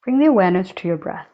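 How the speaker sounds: unhurried meditation guide with long silent pauses; guided meditation. Acted. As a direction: guide them calmly, leaving long spaces between phrases. Leads a breathing meditation.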